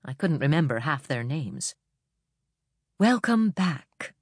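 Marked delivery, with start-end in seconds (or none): 3.0-4.1 smiling. A narrator's reading.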